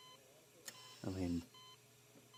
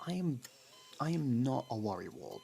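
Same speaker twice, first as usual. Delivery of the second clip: defensive, higher and louder; flustered denial; 5 semitones higher, 3 dB louder than usual. Acted. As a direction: protest a bit too much.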